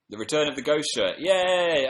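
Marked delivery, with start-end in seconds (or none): 1.2-1.9 high, loud drawn-out yay; gleeful cheer; excited cheer. Real, not acted. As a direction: give a bright little hooray. Cheering the ghost shirt's return.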